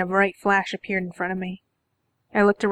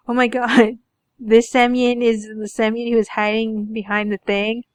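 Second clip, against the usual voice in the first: real surprise; 3 semitones higher, 3 dB louder than usual. Real, not acted. Reader suddenly realizes which Semyon this is, real surprise. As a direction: blurt it out as it dawns on you.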